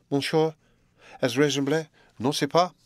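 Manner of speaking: a bright mocking challenge; playful Frenchwoman. A narrator's reading. Frances teases her master about being reasonable.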